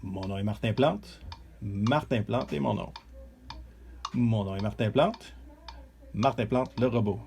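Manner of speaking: slow, even robot voice. Pretend. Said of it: "je vais enregistrer un robot".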